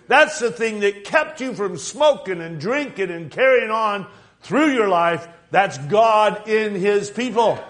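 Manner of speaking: emphatic, driving sermon delivery; impassioned preacher building through repeated phrases; fervent preaching. Real, not acted. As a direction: preach it out, landing hard on key words. Preaches with rising fervour.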